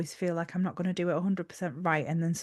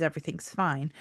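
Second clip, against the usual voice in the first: vocal stim; 3 semitones lower, 4 dB quieter than usual. Shown as a demonstration. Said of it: "my main vocal stim is".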